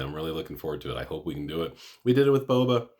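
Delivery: talking while chewing gum. Real, not acted. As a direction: chew gum as you speak. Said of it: "Sorry, I'm chewing gum like a slob".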